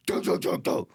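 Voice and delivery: low, rapid bumping noise; imitated thudding. Driver recreates the bump under his car, imitated thudding.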